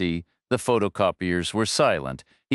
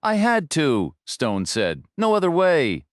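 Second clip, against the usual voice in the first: frightened admission; 7 semitones higher than usual. A narrator's reading. Boss admits, frightened.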